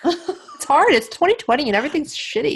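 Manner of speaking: high, laughing complaint. Real, not acted. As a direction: laugh through the words.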